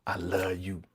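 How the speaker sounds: breathy whispered confession; mock whisper. Imitating Antonio whispering to her. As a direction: whisper it like a lovesick guy. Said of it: "He was on some, like".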